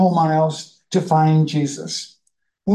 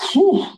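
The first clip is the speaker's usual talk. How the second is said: a sharp, much higher "whew" of disbelief; amazed whistle; 9 semitones higher than usual. Shown as a demonstration. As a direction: blow out a stunned, high whew. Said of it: "That really sounds like".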